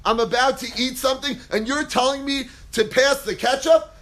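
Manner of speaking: rude refusal. Pretend. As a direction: snap back at the ketchup request. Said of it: "You can say".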